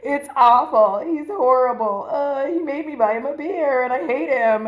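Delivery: venting. Retold or imitated. Venting about the date.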